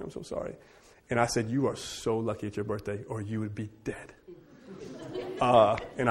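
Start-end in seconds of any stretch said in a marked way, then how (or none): 0.0-0.6 fading into a whispered apology; whispered sorry. Retold or imitated. Apology fades out. 1.5-4.1 mock stern threat. Father's mock threat to daughter.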